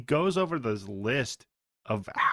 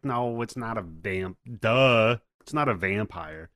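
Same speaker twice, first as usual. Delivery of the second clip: dismissive duh. Retold or imitated. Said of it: "And he's like".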